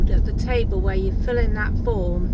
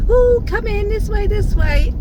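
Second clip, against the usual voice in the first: imitating the welcoming lady; 12 semitones higher, 5 dB louder than usual. Lady at vaccination door welcoming.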